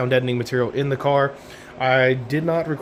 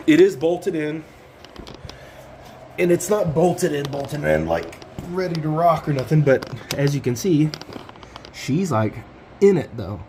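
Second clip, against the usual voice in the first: stuffy nose, short of breath; snotty, breathing hard on back; 3 semitones higher than usual. Real, not acted. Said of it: "Sorry, I'm snotty. It's hard to breathe".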